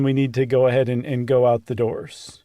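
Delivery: low, calm relayed announcement; retold calm instruction. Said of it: "he very calmly told everyone".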